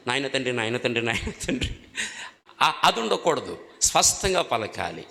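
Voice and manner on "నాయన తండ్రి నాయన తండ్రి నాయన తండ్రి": softly mock the same plea over and over; a hint of rote, droning "నాయన తండ్రి" said again and again; repetitive mumbled prayer. Shown as a demonstration. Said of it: "ఒక మాటనే పది సార్లు". (మొక్కుబడిగా "నాయన తండ్రి" అని మళ్ళీ మళ్ళీ గొణుగుతూ)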